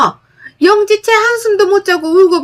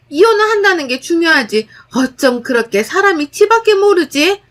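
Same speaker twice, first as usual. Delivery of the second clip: high, loud berating on the phone; mother-in-law yelling at daughter-in-law over the phone, angry and loud; angry scolding mother-in-law; 5 semitones higher, 3 dB louder than usual. Acted. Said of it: "욕 한 바가지를".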